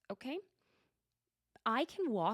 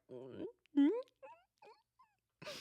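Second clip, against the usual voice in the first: suppressed smile; faster than usual. Retold or imitated. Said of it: "you gotta contain that smile".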